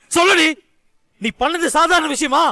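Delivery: angry husband snapping at his wife; angry demand. Acted. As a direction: bark the order at her. Husband angrily demands answer.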